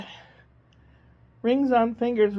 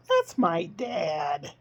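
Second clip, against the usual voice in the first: slow, drawn-out bigger monkey voice; slow it right down for the big monkey; 2 semitones lower, much slower than usual. Acted. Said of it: "there's a bigger monkey, and he goes".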